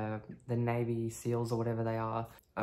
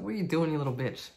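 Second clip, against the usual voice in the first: quick, slightly raised mock scold at himself; angry self-scolding; 4 semitones higher, faster than usual. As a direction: snap at yourself, half-joking. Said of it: "I was just like".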